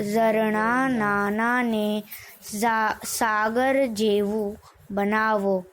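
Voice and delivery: measured line-by-line poem reading with pauses; poem recitation. Acted. Teacher reciting the Jivan Jyot poem for students, measured recitation. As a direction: recite a school poem, drawing out line endings. Reads the chapter's poem aloud.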